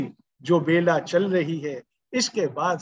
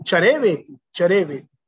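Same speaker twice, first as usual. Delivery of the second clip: punchy, rhythmic rallying call; rousing exhortation; 4 dB louder than usual. Real, not acted. Preacher urging the audience to keep moving, rousing. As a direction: urge them onward with a firm repeated beat.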